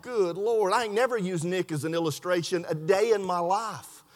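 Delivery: low, softened aside to himself; hushed private thought. Retold or imitated. Preacher recalls his startled thought, hushed.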